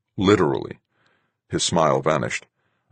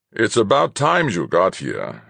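slow, loud stern rebuke; 4 semitones higher, 4 dB louder, slower than usual. A narrator's reading. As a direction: scold him like a strict captain. Fuchs scolds late officer.

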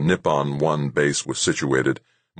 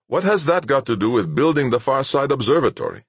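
high, exasperated demand; 10 semitones higher, 4 dB louder than usual. Acted. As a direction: push back in disbelief. Kadar exasperated with Clemens.

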